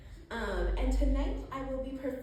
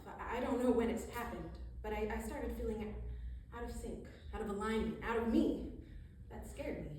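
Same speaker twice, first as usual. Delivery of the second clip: confessional recital, building from measured to more forceful; spoken-word poetry; 3 semitones higher than usual. Acted. Poet confessing lost sense of self, building spoken-word delivery. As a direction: recite it in broken phrases, gradually pressing harder. Reads second poem aloud.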